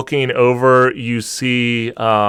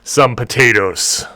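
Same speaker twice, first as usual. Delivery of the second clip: orc bartender voice; 4 semitones higher, 4 dB louder than usual. Acted.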